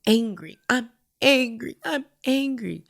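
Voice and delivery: slow, drawn-out imitation of an upset child; retold childish insistence; upset little boy. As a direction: repeat it slowly, pitch climbing as volume fades. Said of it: "he kept saying".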